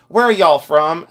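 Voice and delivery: put-on a touch of Southern accent; imitated sweet Southerner. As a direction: mimic a sweet Southern "y'all" question. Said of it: "she was so sweet".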